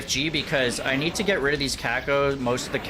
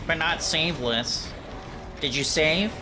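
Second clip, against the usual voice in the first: mocking nerdy voice, slightly higher; nerd voice; 3 semitones higher than usual. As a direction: parrot him in a nasal-free dorky whine. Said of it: "I'm just doing a nerd voice".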